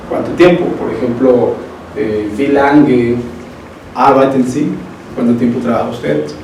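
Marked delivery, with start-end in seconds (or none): 2.4-4.7 slow model phrase. Shown as a demonstration. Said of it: "teacher models German phrases".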